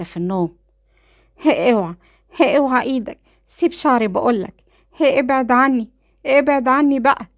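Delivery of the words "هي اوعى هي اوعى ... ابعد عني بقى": higher, louder screams, building to the end; screaming. Acted. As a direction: scream at the brother to let go of her hair. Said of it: "كانت ليلى وهي بتصرخ في اخوها". (صراخ عالي وهي بتستغيث من أخوها)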